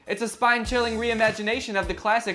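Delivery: high, eager sales pitch; ad read in character. Acted. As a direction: sell the game like a commercial. Zombie reads game ad.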